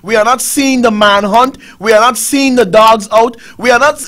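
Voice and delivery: loud, indignant list of complaints; angry complaint. Real, not acted. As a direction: rail against the officials. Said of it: "I'm pissed off tonight".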